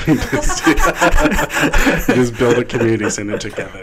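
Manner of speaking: giggling while talking; laughing through words. Real, not acted.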